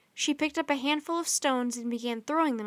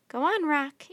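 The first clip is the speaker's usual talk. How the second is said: coaxing; 3 semitones higher, 5 dB louder than usual. Acted. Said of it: "Annie coaxed".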